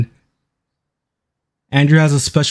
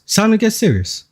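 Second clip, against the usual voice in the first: higher, mock-solemn repeat; raised repeat; 7 semitones higher, faster than usual. Real, not acted. Streamer repeats his warning to viewers, higher. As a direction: say it again pitched up.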